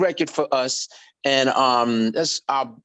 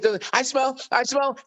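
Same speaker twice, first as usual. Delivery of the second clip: tag; 8 semitones higher than usual. Retold or imitated. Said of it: "So I go".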